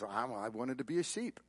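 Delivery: soft, mildly forlorn retelling; a touch of hurt, kept soft; dejected. Retold or imitated. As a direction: voice a quiet, mild dejection. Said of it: "Why are you so dejected?".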